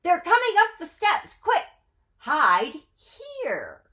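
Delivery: high, loud panicked urging; frantic alarm as they climb the steps. Acted. Mendel panicking, telling the matzo man to hide, high and loud.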